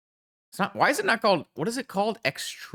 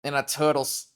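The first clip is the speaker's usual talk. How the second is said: New York accent attempt; 4 semitones higher than usual. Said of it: "in a New York accent".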